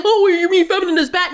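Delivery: mock objector. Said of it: "Don't try to say".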